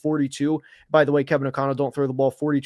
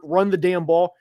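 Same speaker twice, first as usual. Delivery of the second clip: worked up; 2 semitones higher than usual. Real, not acted. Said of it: "I'm definitely getting worked up".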